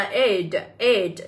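"aid" pronounced as an English word, said twice for learners; model pronunciation. Shown as a demonstration. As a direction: say "aid" as a teacher's reading model. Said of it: "đáp án A này các em sẽ được đọc là". (phát âm mẫu từ "aid")

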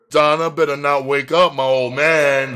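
high, loud objection; loud, pointed retort; said loudly. A narrator's reading. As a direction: raise the voice in warning. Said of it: "the first blonde said loudly".

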